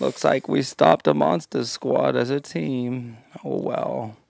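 understated glum cartoon hunter; resigned, lightly slurred cartoon voice; hopeless Elmer Fudd. Hunter back to being nothing, glum and resigned. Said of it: "most depressed, like, hopeless Elmer Fudd".

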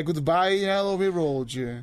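mock British accent. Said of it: "no sotaque britânico".

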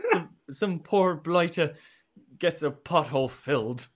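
jokey, laughing Irish accent; put-on Irish accent. Shown as a demonstration. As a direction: give up and do it in Irish. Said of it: "I'll just do it in Irish".

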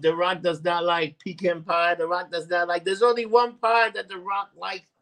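lightly voiced Rock catchphrase; Rock impression. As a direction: stretch the words like the Rock teasing the crowd. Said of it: "The Rock came up".

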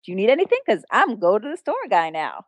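chirpy mock pride; proud. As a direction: imitate someone proudly showing off a new job. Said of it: "he was so proud".

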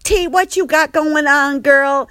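very high, loud, shocked sass; Andre freaking out. Retold or imitated. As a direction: staff member freaking out at the food. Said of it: "Andre's a little bit freaking out".

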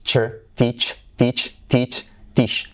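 teach, teach, teach as practice; teach drill. Shown as a demonstration. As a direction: teach repeated with a crisp ch. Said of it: "Podrías practicarlo así".

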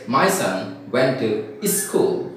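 "school" said as i-school, drawn out slowly; added initial I. Retold or imitated. Teacher mimics Punjabi speakers, "school" said as i-school. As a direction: put a short i before "school". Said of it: "habit of adding I".

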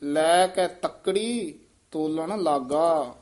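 ਤੱਕੜੀ with a firm doubled k, not ਤਕੜੀ; slow, ਤੱਕੜੀ pressed tight; tight pronunciation. Shown as a demonstration. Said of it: "ਕੱਸ ਕੇ ਉਚਾਰਨ ਕਰਨਾ ਹੈ". (ਤੱਕੜੀ ਕੱਸ ਕੇ ਬੋਲੋ)

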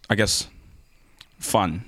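flat robotic monotone; deadpan like a robot. Real, not acted. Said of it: "I sound like a robot".

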